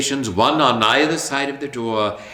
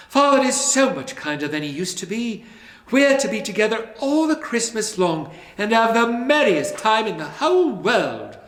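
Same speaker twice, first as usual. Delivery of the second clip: put-on high, bright-eyed child's voice; a small sister calling her brother home; little girl voice; 10 semitones higher than usual. A narrator's reading. Little sister coaxing her brother home, high and eager.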